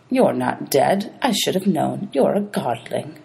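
slow, knowing reveal; a hint of a sly ferryman; suspicious ferryman. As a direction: savor the discovery. Charon sniffs out godling.

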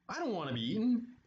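panicky, mildly hammed-up fear; frightened cry. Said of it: "cried Skeleton".

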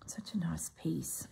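breathy whisper of admiration; hushed admiration. Real, not acted. Crafter admiring fabric to herself, in a whisper. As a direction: whisper it like a treasure.

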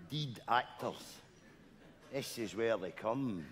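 low, slow and hushed, like a ghost story; slow creepy whisper-soft storytelling; spooky hushed telling. Pretend. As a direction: draw it out quietly to spook him.

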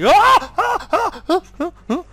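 squeaky laugh that fades; high giggling cackle dying away. Real, not acted. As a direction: laugh at your own mess. Laughing at own blunder.

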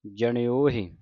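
ਜਣਿਓਹੇ as ja-ni-o-hi; ਜਣਿਓਹੇ with the h sounded; model pronunciation. Shown as a demonstration. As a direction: say ਜਣਿਓਹੇ with retroflex n and short final i. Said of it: "ਇਹ ਉਚਾਰਨ ਹੋਵੇਗੀ ਜਣਿਓਹੇ".

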